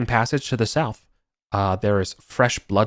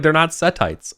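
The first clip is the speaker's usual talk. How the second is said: indignant denial; 6 semitones higher than usual. Acted. GM voicing NPC denial.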